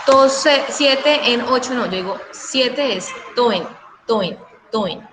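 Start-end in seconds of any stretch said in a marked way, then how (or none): 0.1-1.8 "to" and "en" counted apart, slowly; separate syllables. Shown as a demonstration. Teacher showing the wrong syllable count, split apart. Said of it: "ya no digo". 3.4-5.1 "to en" run together as one syllable; joined syllables. Shown as a demonstration. Teacher showing students the merged count, syllables joined. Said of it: "Las uno como si fuera una sola sílaba".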